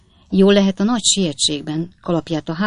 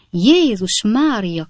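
drawn-out, higher cry of alarm; startled cry; 5 semitones higher, 4 dB louder, much slower than usual. A narrator's reading. Middle-aged lady hears a sound behind curtain, startled cry. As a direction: exclaim slowly in raised-pitch fright. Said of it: "kiáltott fel a javakora beli hölgy".

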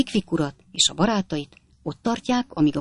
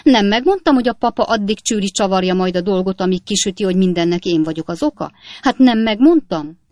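offended indignation; 3 semitones higher, 5 dB louder than usual. Acted. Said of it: "a mélyen megbántott nő méltatlankodásával".

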